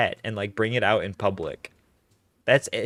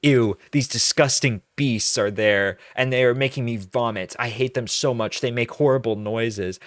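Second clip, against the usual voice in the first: disgusted dog hater; 3 dB louder than usual. Retold or imitated. Mocking the subreddit's dog haters, louder sneering. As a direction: sneer at the beasts. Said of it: "And these people are like".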